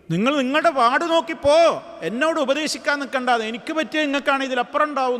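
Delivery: mildly acted angry comeback to unwanted advice; agitated retort. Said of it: "ക്ഷോഭം ... പെട്ടെന്ന് തന്നെ പ്രവാചകനോട് തിരിച്ചടിച്ച്".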